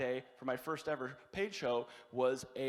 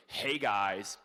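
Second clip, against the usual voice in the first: grudging, slow announcement, a little lower; upset bartender; 3 semitones lower, slower than usual. Retold or imitated. Bartender announcing comedy to a bar, upset. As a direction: announce the show as a put-out bartender. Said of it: "bartender who could not be more upset".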